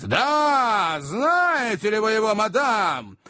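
high, insistent acted shouting; ferocious jealous interrogation; fierce demand. A narrator's reading. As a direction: hammer the question home furiously. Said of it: "повторил мистер Магнус свирепо".

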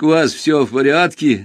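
relieved. Acted. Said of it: "с облегчением спросил он".

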